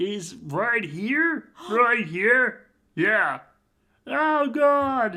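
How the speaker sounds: high voice, very slow, "God" stretched out. Trying another Ray Romano impression: Ray Romano impression sounding like Pee-wee Herman. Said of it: "That was Pee Wee Herman".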